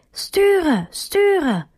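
hoger geroepen bevel; roepend. A narrator's reading. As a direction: roep het met dichte ogen naar haar. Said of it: "Dan roept hij". (Truman roept naar Merrill terwijl hij zijn ogen sluit, hoger geroepen)

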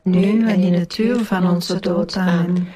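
measured rosary response in unison; praying aloud as a congregation; prayer recitation. Real, not acted. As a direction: recite it together, evenly and devoutly. Group answers the Hail Mary.

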